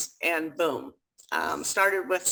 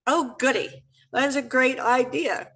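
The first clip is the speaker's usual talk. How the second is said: higher-pitched mock enthusiasm; put-on, higher-pitched husband's response; husband's retold reaction; 5 semitones higher, 3 dB louder than usual. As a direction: imitate a husband's "delighted" reaction. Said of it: "what was his reaction?".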